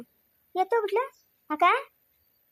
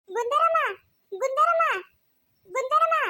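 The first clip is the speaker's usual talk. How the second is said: higher, rising calls of her name; calling out; 4 semitones higher, slower than usual. Acted. Girl running after her aunt, calling her name higher. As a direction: call after her from a distance.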